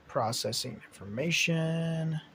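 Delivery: a lightly robotic, slow computer voice; robot processing. Pretend. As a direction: play a slow little computer thinking aloud. Narrator pausing to think.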